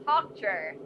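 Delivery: Tochter said with a German throaty ch; careful German Tochter, ch from the throat; German pronunciation. Shown as a demonstration. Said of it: "pronounce several German words".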